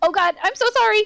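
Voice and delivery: very high, panicky, flustered. Describing how Aika would react when the kindly old man spoke to her: imitating Aika's anxious apology. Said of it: "Aika would immediately freeze up and go".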